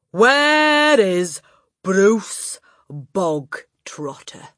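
loud, high, dragged-out demand; demanding shout. Acted. Headmistress shouting for the boy at assembly. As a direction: stretch the name out menacingly.

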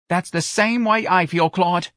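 high, drawn-out Southern character voice; earnest older local woman. Acted. Mother agreeing with her suitor Claude, earnest.

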